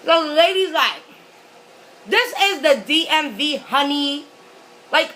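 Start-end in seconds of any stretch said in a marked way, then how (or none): 2.1-4.2 sassy mock clerk voice, pitched up. Clerk brushing off an upset customer, sassy. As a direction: imitate a dismissive clerk with attitude.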